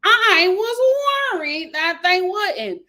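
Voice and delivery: mock gushing, drawn out at the end; imitating Debbie's relief. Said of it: "she's just like".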